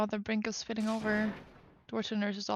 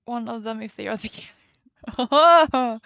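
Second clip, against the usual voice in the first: slow, loud, eerie voice; creepy character voice; 10 dB louder, slower than usual. Acted. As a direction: loom over them, drawn out. Character suddenly cuts in.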